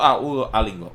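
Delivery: ordinary talk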